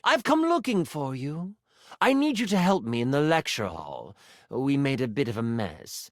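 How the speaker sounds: a light enchanter mentor voice, businesslike; lightly voiced mentor. Mentor calls apprentice to the lecture hall, lightly voiced and businesslike. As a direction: voice a mentor calling for help.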